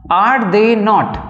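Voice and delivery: very slow, each word drawn out; slow dictation. Shown as a demonstration. Teacher dictating to students, very slow and spaced. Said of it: "তো এখানে লেখা যাক".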